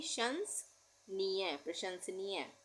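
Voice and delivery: शंसनीय stretched syllable by syllable; slowly sounded out. Shown as a demonstration. Teacher spelling the word for pupils, very slowly sounded out. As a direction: drag each sound of शंसनीय for dictation.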